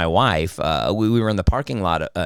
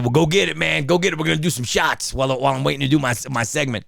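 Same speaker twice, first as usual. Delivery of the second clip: lively higher-pitched quote of a pal; eager party-buddy urging; 5 semitones higher, faster than usual. Retold or imitated. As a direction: egg your friend on over the phone. Acted phone call urging shots.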